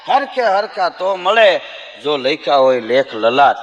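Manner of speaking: slow, measured folk verse; slow recited verse with a laugh in it; recited couplet. Acted. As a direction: chant the doha slowly.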